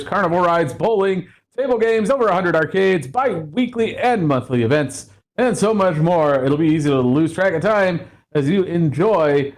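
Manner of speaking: upbeat sponsor announcement voice; ad read. Acted. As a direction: sell it like a carnival barker. Reads a sponsor ad.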